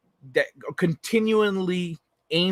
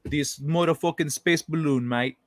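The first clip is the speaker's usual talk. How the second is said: a lightly put-on vague British accent on mate; half-hearted mock Brit voice; terrible accent. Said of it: "That was a terrible accent".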